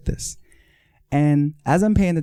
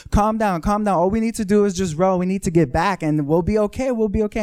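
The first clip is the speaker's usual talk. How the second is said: urgent reassurance; 7 semitones higher than usual. Retold or imitated. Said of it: "I'm telling them".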